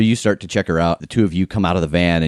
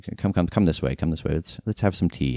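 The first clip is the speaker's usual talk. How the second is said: soft, kindly ushering; Margaret; 4 dB quieter than usual. Acted. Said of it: "And Margaret is like".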